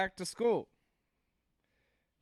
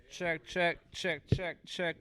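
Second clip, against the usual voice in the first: steady mic check, even rhythm; slower than usual. Real, not acted. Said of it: "mic check".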